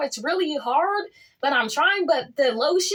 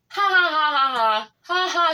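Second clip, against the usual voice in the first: mocking fake laugh. Mocking the girl who blocked her, hammed-up fake laugh. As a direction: laugh at her on purpose, to rub it in.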